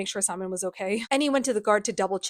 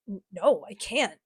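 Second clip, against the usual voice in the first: hesitant refusal; slower than usual. Retold or imitated. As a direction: stumble on the first word, acting reluctant. Acted refusal of a kiss.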